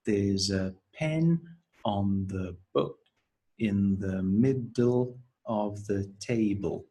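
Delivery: slow, chunked phrase by phrase; syllable by syllable. Shown as a demonstration. Teacher modelling the sentence for syllable counting. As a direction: spell out the beats slowly. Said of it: "model the sentence and count the syllables".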